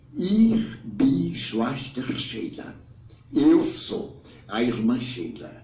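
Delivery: very slow, deliberate self-introduction; lightly voiced spirit nun, unhurried; spirit sister's voice. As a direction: introduce yourself word by word, drawn out. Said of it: "mas aquele horror de voz".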